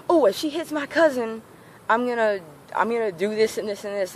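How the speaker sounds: high, brash mock threat; hammed-up cousin boasting what she'll do; lightly voiced bully talking big; imitating threatening cousin.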